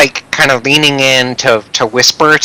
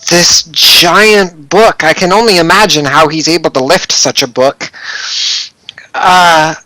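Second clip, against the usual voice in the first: hesitant, slightly raised character voice; barmaid character; 3 semitones higher than usual. Acted. Brandy telling a stranger about a regular customer, lightly voiced barmaid. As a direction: recall a regular customer, drawing out key words.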